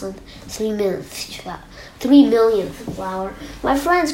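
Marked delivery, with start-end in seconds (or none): 3.6-4.1 raised-pitch storybook cry. A narrator's reading. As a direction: call out to dear friends. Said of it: "cried the elephant".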